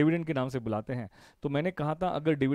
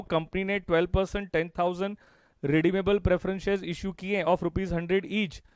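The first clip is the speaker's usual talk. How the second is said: very slow, word by word; slow classroom dictation; slower than usual. Shown as a demonstration. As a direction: spell it out for students to copy. Dictating the question again.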